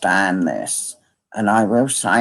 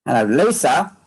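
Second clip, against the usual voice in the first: calling out; 6 semitones higher, faster than usual. Real, not acted. Calling for someone who has gone.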